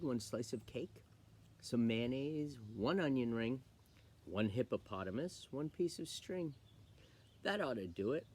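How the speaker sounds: rhythmic recipe recital with small pauses; poem reading. Acted. Reader sharing a hippo sandwich recipe poem, playful recital. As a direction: list it out in playful verse. Reads a fun poem aloud.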